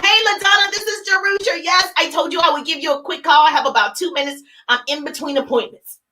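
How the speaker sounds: a quick confident phone opener; right way, upbeat. Shown as a demonstration. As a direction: sound busy and friendly. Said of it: "You just get on the phone".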